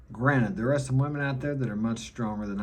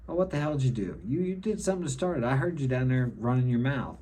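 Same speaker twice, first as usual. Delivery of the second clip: higher-pitched accusing telling-off, only mildly angry; mock scolding; 3 semitones higher, faster than usual. Father to his crying son after a fight, mock scolding. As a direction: put on an exasperated parent's accusing questions.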